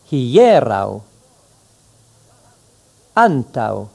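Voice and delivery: ancao, ancorao, rauca, europo each said slowly, clearly and carefully; model words for repeating. Shown as a demonstration. Teacher reading words for the class to repeat. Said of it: "Répétez-les immédiatement".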